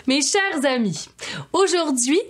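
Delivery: hammed-up show opener; talk show host. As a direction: greet the audience like a bubbly TV host.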